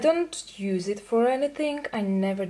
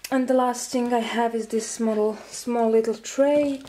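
a bit breathless; talking while short of breath. Real, not acted. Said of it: "I'm sorry if I'm out of breath".

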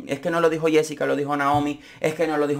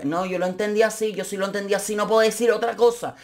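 mock insistence; 8 semitones higher than usual. Mimicking Susana insisting.

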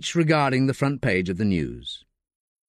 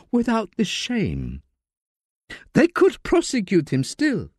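a lightly voiced nephew, pleading and building to reproach; beg, then accuse, rising as you go; 6 semitones higher than usual. Nephew pleads with his dying uncle not to confess, building plea.

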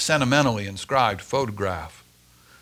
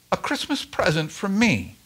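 musing; 7 semitones higher, 4 dB quieter than usual. Acted. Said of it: "mused the old man".

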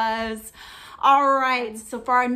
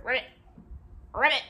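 frog croak; much faster than usual. Shown as a demonstration. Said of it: "I'll give you a hit here".

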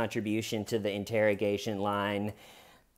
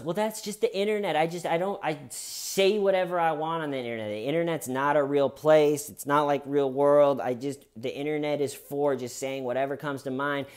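higher pitched, fast, brushing it off; imitating a guy shrugging it off; mock dismissive excuse; 4 semitones higher than usual. Predator shrugging off the chat to the host, mock dismissive.

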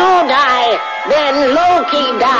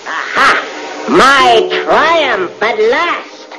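gloating, slow; anime rival; slower than usual. Acted. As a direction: savour the triumph slowly. Loki gloats.

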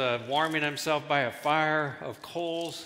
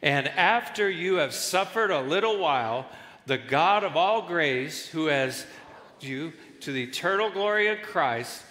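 louder, slow congregational reading; reading aloud together. Real, not acted. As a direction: read it out nice and loud with everyone. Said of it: "read it with me nice and loud".

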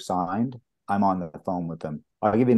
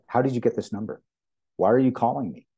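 mildly indignant retold demand, pitched higher; angry actor on phone; 4 semitones higher than usual. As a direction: imitate an irritated man questioning an unwanted caller. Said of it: "He was so angry".

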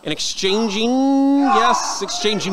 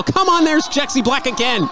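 raised, outraged call; exasperated commentator outburst; excited; 4 semitones higher than usual. Real, not acted. Commentator reacts to interference.

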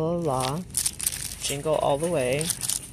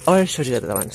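excited; 7 dB louder, faster than usual. Real, not acted. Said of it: "Sorry, I got excited".

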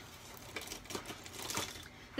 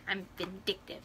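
mock vindictive; 6 semitones lower, 14 dB quieter than usual. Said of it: "Like, it's like".

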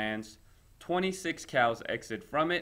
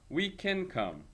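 excited cry; 7 semitones higher, slower than usual. Acted. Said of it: "they cried".

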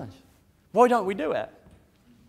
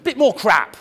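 laughing, mock-polite ordering of sadness; mock polite request; 2 semitones lower than usual. Speaker joking to the audience about choosing sadness, laughing. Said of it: "How many people would go".

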